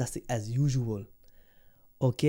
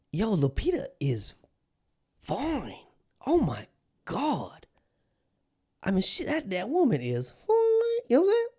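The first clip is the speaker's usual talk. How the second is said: gushing; 10 semitones higher than usual. Real, not acted. Gushing over actress.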